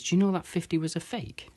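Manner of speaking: spring the shock on them; mock surprise. Punchline twist, barman quoting shock.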